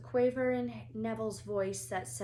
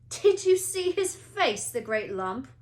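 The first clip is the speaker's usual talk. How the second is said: much higher, louder, slow jeer; mocking; 5 semitones higher, 10 dB louder than usual. A narrator's reading. Malfoy mocks Neville to the Slytherins, high. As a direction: sneer at Neville's fall. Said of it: "Malfoy burst into laughter".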